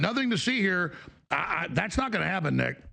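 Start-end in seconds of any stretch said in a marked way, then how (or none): 0.0-0.9 lightly voiced dismissive cop, a bit higher; brushing people off, "Nothing" leaned on; mock cop line. Mocking CNN as the Naked Gun cop, mildly higher. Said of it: "like the Naked Gun".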